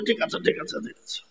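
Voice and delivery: imitating meek whisper. Maulvi yields, clasping hands.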